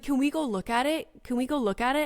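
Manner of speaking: lightly voiced pleading child; imitated eager child. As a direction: mimic a curious little boy asking repeatedly. Mimics son pleading to look.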